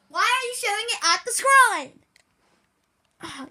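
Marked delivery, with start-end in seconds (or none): 0.1-2.0 louder, higher scolding; angry yell. Real, not acted. Kid scolding the cameraman, louder the second time. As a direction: shout it at him, annoyed.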